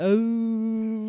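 wheezy, pained grape lady moans. Retold or imitated. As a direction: wheeze out each oh like you fell hard. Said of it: "She does say that".

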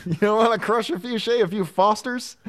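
mock Australian accent. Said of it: "my Australian accent".

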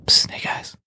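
whispered conspiratorial raccoon voice; furtive whispered raccoon character; talking raccoon. Acted. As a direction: hiss for attention like a sneaky raccoon. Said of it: "here's my raccoon".

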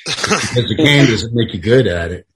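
low, subdued local griping about outsiders; lightly voiced wary townsman; small-town mill man. Mill man warning off college boys, lightly voiced local.

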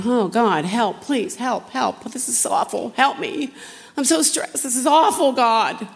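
a half-serious imitation of a panicked plea; mock whiny complaining prayer. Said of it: "you could either fight by just go, going".

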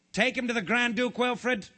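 high-pitched royal order; commanding king. A narrator's reading. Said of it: "commanded the king".

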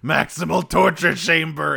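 high, panicked mock yell; mock scream. Retelling Dinobot waking confused, a hammed-up panicked scream. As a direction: cry it out like a fleeing, terrified robot. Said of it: "just screaming".

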